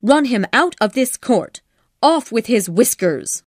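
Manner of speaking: loud, high furious yell; yelling queen. A narrator's reading. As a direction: bellow the orders like a queen. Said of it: "yelled the queen".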